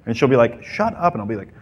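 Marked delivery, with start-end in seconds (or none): 0.6-1.1 high-pitched mock protest; put-on high female voice; imitated flustered woman. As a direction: play her embarrassed objection up high.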